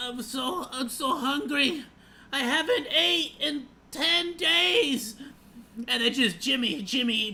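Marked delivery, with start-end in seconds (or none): 0.0-5.1 slow, drawn-out, famished plaintive voice. Imagining being a starving contestant: acting a starving contestant. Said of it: "Imagine just being like".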